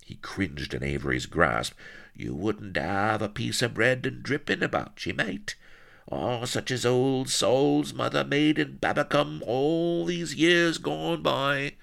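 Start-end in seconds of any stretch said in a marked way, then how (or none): 2.1-11.7 high, wistful rustic whimper. A narrator's reading. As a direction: cadge food in a whining yokel voice. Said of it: "he whimpered".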